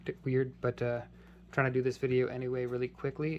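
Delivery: hoarse, sore-throat voice. Real, not acted. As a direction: talk through a sore throat. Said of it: "My voice sounds a little bit d-, weird".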